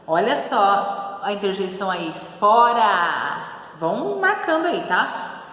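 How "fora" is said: loud demonstrated command, at usual pitch; acted shout of expulsion; angry shout. Shown as a demonstration. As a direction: throw them out with one loud word. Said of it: "gritava espumando de raiva".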